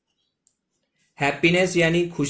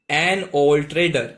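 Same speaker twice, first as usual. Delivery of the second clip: slow model reading; 4 dB louder, much slower than usual. Shown as a demonstration. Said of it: "an यानी एक".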